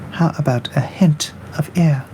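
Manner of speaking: whisper. Real, not acted. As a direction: breathe the question out. Whispered aside.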